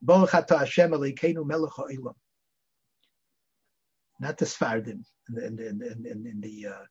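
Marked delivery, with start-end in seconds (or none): 0.0-2.2 "Baruch Atah Hashem" in Ashkenazi vowels, "Atoh" with o, stress before the last syllable; Ashkenazi blessing. Shown as a demonstration. Showing how Yeshiva boys say the blessing, Ashkenazi pronunciation. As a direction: recite "Elokeinu Melech Ha'olam" the old Ashkenazi way. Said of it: "when it comes to the language or davening".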